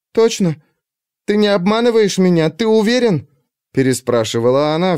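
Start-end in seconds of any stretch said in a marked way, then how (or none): 0.1-3.3 anxious. A narrator's reading. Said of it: "не в силах взять себя в руки".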